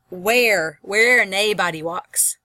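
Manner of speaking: slow Scottish "where naebody walks"; Scottish accent. Shown as a demonstration. Teacher showing the class the poem's dialect, slow Scottish accent. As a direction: stretch "naebody" Scottish-style, with NAY for "no". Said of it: "It's a Scottish dialect".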